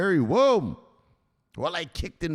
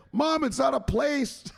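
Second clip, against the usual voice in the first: exasperated yell; 12 semitones higher than usual. Acted. Son yelling at mom.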